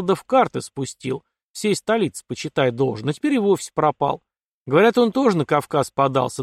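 lightly voiced colonel running down a rake; scornful colonel. Father to daughter about Ростовцев, disapproving. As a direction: gossip with mild scorn, pitch jumping up.

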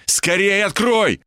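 high, drawn-out urgent cry; shouted plea. A narrator's reading. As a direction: stretch the command out, pitched high. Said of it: "крикнул я Ибе". (протяжный выкрик, торопит открыть)

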